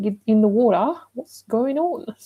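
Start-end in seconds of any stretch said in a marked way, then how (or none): 0.0-1.0 put-on Australian accent, slower pace. After noticing they sounded Australian, repeating the phrase in an Australian accent.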